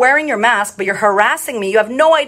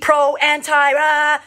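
mild mocking rant, pitched up; 5 semitones higher, much slower than usual. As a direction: lightly parody someone ranting. Mocking shouty pro or anti activists.

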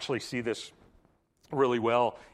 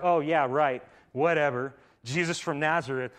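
mock skeptic; 2 semitones higher, 4 dB louder than usual. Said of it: "Mister Skeptic".

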